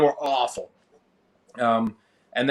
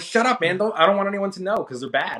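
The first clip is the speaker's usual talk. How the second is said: embarrassed protest; 6 semitones higher than usual. Retold or imitated.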